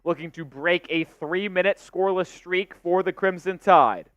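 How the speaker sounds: steady live basketball call; play-by-play. Real, not acted. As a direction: track each pass as it happens.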